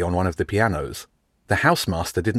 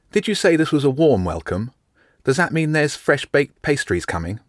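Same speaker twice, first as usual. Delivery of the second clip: put-on higher, eager boyish asking; hopeful about pastries; eager hopeful question; 7 semitones higher than usual.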